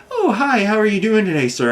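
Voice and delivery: high, sing-song mock of a cheerful bank teller; chirpy teller voice. Mimicking the bank teller's greeting in a high, sing-song voice. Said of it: "the tellers, they're always like".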